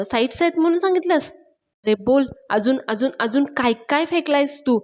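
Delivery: retold angry cross-questioning; exasperated questions, pitch jumping up at the ends; irritated. Panya confronts Raja over his lies about Yashoda, irritated. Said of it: "पाण्या खूप चिडलेला असतो".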